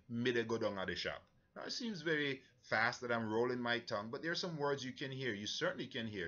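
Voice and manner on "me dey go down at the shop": lightly spoken in Jamaican Patois, "Me dey go" run together; a hint of Jamaican Patois, quick and rolled. Shown as a demonstration. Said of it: "in Patois, we would say".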